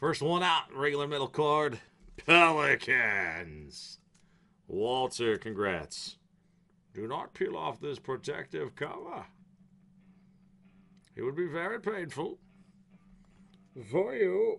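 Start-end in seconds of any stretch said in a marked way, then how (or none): 6.9-14.6 put-on pitched-up menacing character voice. Opening trading cards and speaking to Walter: Bane voice. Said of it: "got to do a little Bane voice every now and then".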